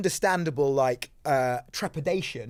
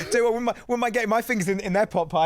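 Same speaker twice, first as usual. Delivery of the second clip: giggly presenter; 6 semitones higher, faster than usual. Pretend. Hammy presenter innuendo, laughing.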